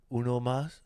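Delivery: high, loud put-on accent; imitating Jackie Chan. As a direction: mimic Jackie Chan's movie line. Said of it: "in his, uh, Asian accent, he goes".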